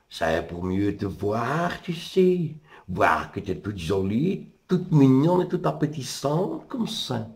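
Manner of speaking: put-on slow, sugary old-granny answer; sly wolf as granny. Wolf disguised as grandmother flatters the girl, slow and sly. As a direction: coax the girl closer, drawn out.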